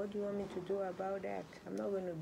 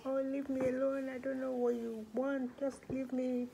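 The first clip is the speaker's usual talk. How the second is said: higher, louder, brushing the worker off; irritated outburst; 4 semitones higher, 4 dB louder than usual. Acted. Teen snapping at group home worker: irritated, raised voice. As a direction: push the caring adult away, fed up. Nicole snapping at staff member.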